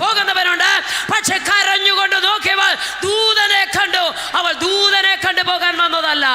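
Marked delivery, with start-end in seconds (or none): 1.1-6.3 loud, raised preacher's cry; fiery preaching. Acted. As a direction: preach it out to the congregation. Preaching at full force. (ആവേശത്തോടെ ഉച്ചത്തിലുള്ള പ്രസംഗം)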